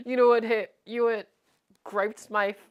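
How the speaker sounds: lightly imitated YouTuber rant; a hint of a critic impression; Moist Critical. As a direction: punch the opening words, then spread out the gripe. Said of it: "mimic exactly how he talks".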